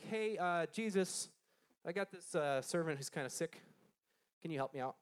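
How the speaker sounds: offhand, hesitant ask with easy pauses; casual request. Acted. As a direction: ask for a favor like it's no big deal. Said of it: "he wasn't just like".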